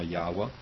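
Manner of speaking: Yahweh said YAH-wuh; variant pronunciation. Shown as a demonstration. Teacher listing possible pronunciations, Yahweh as YAH-wuh. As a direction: say Yahweh with a w and "uh" ending. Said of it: "however it's supposed to pronounce".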